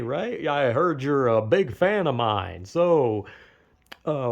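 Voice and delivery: mock creepy online stranger; imitated online predator. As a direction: lightly act out a predator coaxing a kid. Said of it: "so many fucking predators on the internet".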